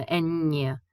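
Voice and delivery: "ñ" slowly sounded as N plus Y, en-yuh. Shown as a demonstration. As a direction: draw out the "ñ" like the ny in canyon. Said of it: "pronounced similar to N Y".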